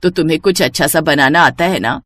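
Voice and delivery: mother-in-law voice. Acted.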